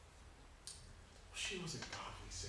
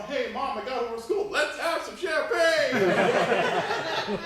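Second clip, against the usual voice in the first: mock celebration; 11 semitones higher, 10 dB louder, much slower than usual. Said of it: "for any reason at all".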